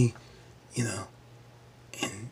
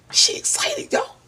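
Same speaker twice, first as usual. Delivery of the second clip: "She excited" in an unvoiced whisper. Shown as a demonstration. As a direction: breathe "She excited" as a secret.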